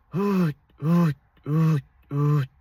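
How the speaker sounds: "Hoot" cut off sharply on the T; each "hoot" short, high and loud, air stopped dead. Shown as a demonstration. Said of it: "I'm going".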